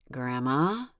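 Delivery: a mild, understated warning; low warning tone. Acted. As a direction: drop the voice on "Grandma?" to warn her. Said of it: "I said in a low, warning tone".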